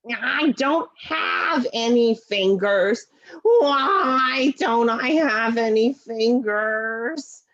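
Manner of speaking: slow, wailing lament with a fake sob; whiny mock cry. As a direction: pout and wail about having no fingers. Puppet laments missing fingers.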